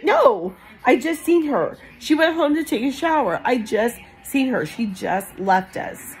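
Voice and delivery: pleading disbelief, retold without tears; retold distraught denial. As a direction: re-enact refusing to believe bad news. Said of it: "I'm bawling by this time".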